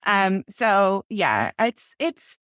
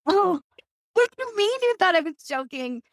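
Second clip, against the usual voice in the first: incredulous; 10 semitones higher than usual. Retold or imitated. Incredulous reply to mom.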